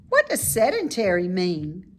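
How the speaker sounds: a curious little pig asking. Acted. Wilbur asks.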